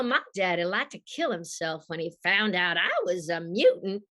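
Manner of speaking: sexy, husky Southern voice, lightly put on; Rogue. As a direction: audition read with a Southern accent. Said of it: "they wanted a sexy Southern voice".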